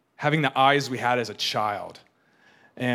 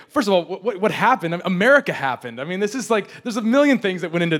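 raised-pitch incredulous retort; mock exasperation; 5 semitones higher, 3 dB louder than usual. Jaded New Yorker answering the shocked sister, mock exasperation. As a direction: imitate a jaded friend scoffing.

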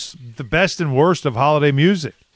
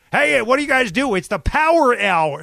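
bad New York accent; 7 semitones higher than usual. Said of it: "people who can't do the New York accent, they try it".

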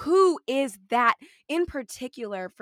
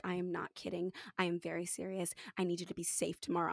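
low, hushed, serious motherly tone; imitated concerned mom; 7 semitones lower, 12 dB quieter, faster than usual. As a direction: quote a worried mother, quietly and gravely. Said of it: "very concerned".

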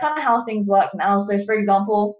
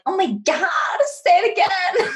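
gushing American fan; 9 semitones higher than usual. Retold or imitated. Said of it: "American people are like".

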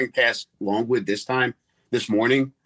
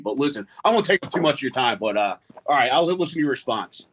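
reporter voice; 4 semitones higher than usual. Pretend. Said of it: "Let's hear it".

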